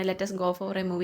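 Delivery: slow dictation. Shown as a demonstration. Teacher dictates example slowly.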